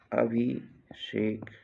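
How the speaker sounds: "अभिषेक" slow, pause after अभि; split slowly for dictation. Shown as a demonstration. Teacher dictating a spelling, अभिषेक slowly in two parts.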